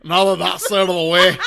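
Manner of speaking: loud mock Scottish-American villain voice, laughing; hammed-up Scottish-American hybrid accent; weird Scottish-American hybrid. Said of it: "this moment is when his voice changes".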